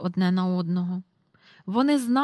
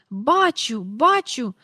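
loud, delighted cry; jumping with joy; 3 semitones higher, 6 dB louder, slower than usual. A narrator's reading. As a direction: leap up shouting I see it. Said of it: "аж підскочив він". (радісно підскакуючи)

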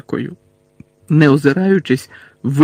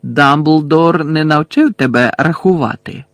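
slow, deliberate gloating; taunting villain; slower than usual. Acted. Villain pointing out to Harry that he is outnumbered, taunting. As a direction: spell it out slowly, as if to a child.

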